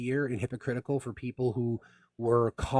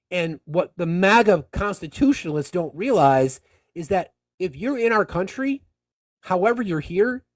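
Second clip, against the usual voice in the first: impassioned rant; 7 semitones higher, 7 dB louder than usual. Real, not acted. Passionate rant against MAGA.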